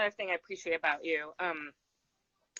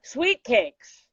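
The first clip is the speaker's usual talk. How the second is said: higher, louder, very slow and drawn out; God's sweet voice; 8 semitones higher, 8 dB louder, much slower than usual. Acted. God answering the poet with a fond drawn-out endearment. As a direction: stretch out the endearment. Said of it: "God said".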